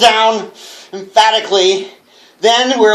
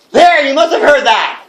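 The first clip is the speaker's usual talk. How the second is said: startled; 7 semitones higher than usual. Acted. Startled by a noise.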